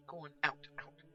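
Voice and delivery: urging out. Acted. Pushing Catweasel outside.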